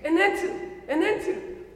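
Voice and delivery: high, rising Korean-accented "Annette". Shown as a demonstration. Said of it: "Let me say it in a Korean accent".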